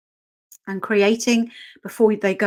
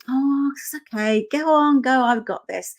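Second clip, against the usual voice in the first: light, higher reassuring dog voice; the dog that will never say this, voiced lightly and higher; imagined dog voice; 5 semitones higher than usual. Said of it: "the dog isn't gonna go".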